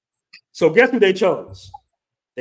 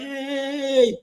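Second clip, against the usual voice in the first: imitating angry locals; 9 semitones higher, slower than usual. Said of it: "they cussing and shit like".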